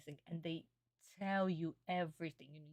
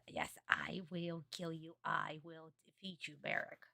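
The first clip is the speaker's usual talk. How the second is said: seething anime duelist. Acted. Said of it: "getting all pissed".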